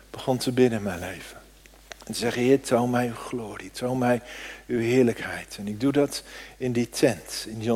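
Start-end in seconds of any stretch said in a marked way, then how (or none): 2.4-5.6 soft prayer. Acted.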